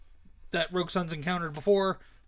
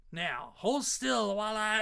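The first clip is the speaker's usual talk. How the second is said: slow, higher-pitched Southern menace; Southern redneck accent; 6 semitones higher, slower than usual. Acted. Redneck readies the final blow, slow Southern accent. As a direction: draw it out as a Southern villain closing in. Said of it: "accent for him came in".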